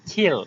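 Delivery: "কিল" with a puff on the k; airy k opening "কিল"; aspirated K. Shown as a demonstration. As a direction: say "কিল" as khil. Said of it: "এটা খিল বলবা".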